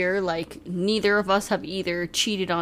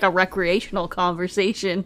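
ordinary talk

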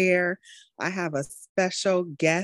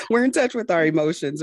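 laughing; 5 semitones higher, 4 dB louder, faster than usual. Real, not acted. Host laughing at own joke.

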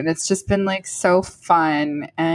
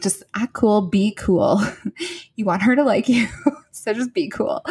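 nervous self-talk; 3 semitones higher than usual. Retold or imitated. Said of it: "I'm like".

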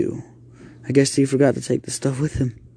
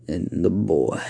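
demon voice; 4 semitones lower, slower than usual. Acted. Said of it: "it said inside the boy's body".

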